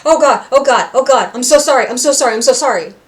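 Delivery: panicked apology. Retold or imitated. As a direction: rush out the apology in a mild fluster. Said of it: "He's like".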